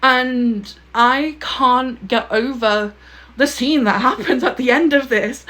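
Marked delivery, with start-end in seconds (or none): 3.4-5.5 a laugh breaking into the words; laughing through it. Real, not acted. Gushing to viewers about the book's ending, laughing. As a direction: giggle while getting the words out.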